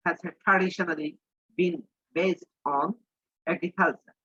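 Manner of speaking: slow, careful English read for learners; teacher repeating the sentence slowly for students; slow dictation reading. Shown as a demonstration. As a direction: spell it out slowly for the class. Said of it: "rereads the English sentence slowly".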